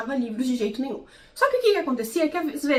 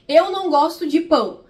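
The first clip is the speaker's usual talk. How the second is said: a touch of distaste, a little louder on "Eu não gosto de pão"; disgusted about bread; 2 semitones higher, 4 dB louder than usual. Shown as a demonstration. Reading a book character's line, with mild disgust. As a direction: say "Eu não gosto de pão" like someone who really hates bread. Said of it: "com entonação de quem não gosta de pão".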